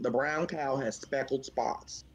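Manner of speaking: slow country accent model sentence; country accent demo. Shown as a demonstration. Giving a teammate a line to repeat, country accent. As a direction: draw it out slowly in a country accent. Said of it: "repeat this after me".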